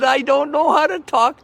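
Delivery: high, loud insistence; loud protest. Retold or imitated. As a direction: belt it out, proud of it. Defending his loud voice.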